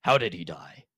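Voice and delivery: put-on low announcer voice with an Asian accent; deep Asian announcer voice. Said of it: "We have deep Asian announcer voice".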